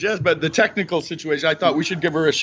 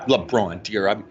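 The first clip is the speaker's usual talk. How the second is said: imitating mom. Son voicing his mom comparing LeBron and Michael. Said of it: "she'll go".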